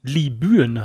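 "Libyen" slowly with ü sound, Li-bü-en; spelling pronunciation. Shown as a demonstration. Asking about the Y, slowly saying "Libyen" with ü. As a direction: stretch "Libyen" out with the Y as ü. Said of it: "wie spricht man das Y aus".

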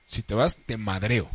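low, soft mock warning; mock veiled threat. Guy voicing a partner's hidden meaning, mock menacing. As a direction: drop it low and quiet, like a threat.

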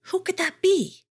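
high-pitched, startled question; puzzled wondering. A narrator's reading. Jardad hearing grunting in the distance, puzzled.

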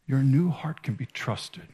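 Your new heart can be trusted, fully hushed; whisper. Shown as a demonstration. Preacher whispering reassurance to the congregation, intimate. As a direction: whisper it like a secret.

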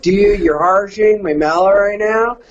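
imitated stoned surfer bro; surfer dude talk. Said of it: "I started talking like those guys".

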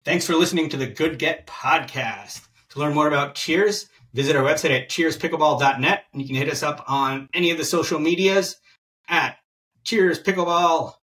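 upbeat announcer read of the sign-off; podcast outro. Acted. Host signs off to listeners, upbeat outro read. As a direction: sell the show like an outro host.

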